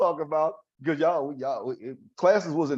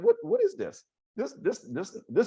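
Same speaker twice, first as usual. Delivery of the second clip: high, stammering mock tirade; retold outburst; 10 semitones higher than usual. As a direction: sputter in protest, pitched up high. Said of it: "I'm yelling and screaming".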